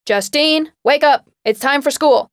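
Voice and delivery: high, loud exasperated calling through the door; exasperated yell. A narrator's reading. Mother calls daughter awake for school, exasperated yell. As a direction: yell her awake, fed up. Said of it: "her mother's exasperated voice".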